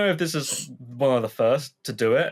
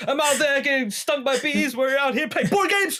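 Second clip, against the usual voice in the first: exasperated hick. Retold or imitated. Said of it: "He's like".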